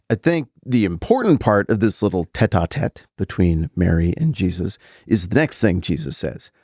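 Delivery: usual speaking voice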